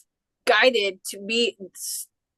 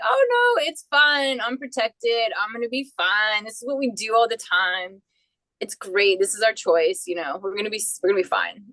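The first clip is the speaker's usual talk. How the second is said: breezy denial. Retold or imitated. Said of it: "And you're like".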